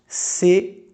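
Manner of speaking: Sequência and cinzeiro in three spaced beats each; three separate impulses. Shown as a demonstration. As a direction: pause between every syllable of sequência, cinzeiro. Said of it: "Olha aí os três impulsos".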